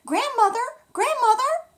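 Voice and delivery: high, loud call into the house; a girl calling through an empty house. Acted. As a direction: call for grandmother from the doorway.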